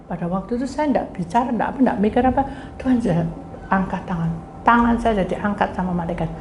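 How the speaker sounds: ordinary talk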